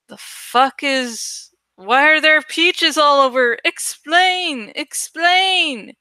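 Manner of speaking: high, drawn-out then insistent explain; lightly voiced baffled viewer demanding answers; mock demanding viewer. Confused viewers asking about peaches, demanding explain. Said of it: "other people will be going".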